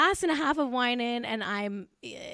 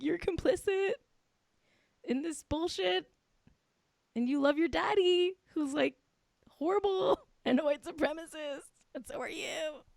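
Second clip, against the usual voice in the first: mock scolding Ivanka; 6 semitones higher, 7 dB quieter than usual. Mock lecturing Ivanka, high and soft.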